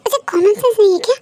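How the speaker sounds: possessive, irritated grumbling; acted jealous husband fuming to himself. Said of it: "जंगो को बहुत ही jealousy होने लगता है". (जलन भरी झुंझलाहट)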